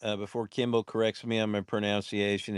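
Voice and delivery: talking around chewing gum; mouth full. Real, not acted. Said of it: "It's just the gum in my mouth".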